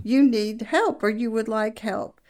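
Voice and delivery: lightly imitated calm husband. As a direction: retell the husband's even, patient reply. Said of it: "And very calmly he said".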